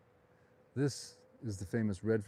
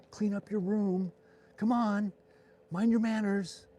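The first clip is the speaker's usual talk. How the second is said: high, loud parental telling-off; raised, high-pitched scolding; 9 semitones higher, 4 dB louder, slower than usual. Acted. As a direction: order naughty children to behave. Imagined scolding of government like children.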